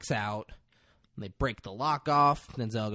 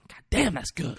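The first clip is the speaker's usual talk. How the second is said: tag; 6 semitones higher, 4 dB louder than usual. Retold or imitated. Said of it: "It's like that".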